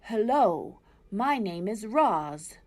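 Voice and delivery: slow, mildly robotic greeting; owl imitating Roz. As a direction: owl lightly mimicking the robot. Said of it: "I think it was saying".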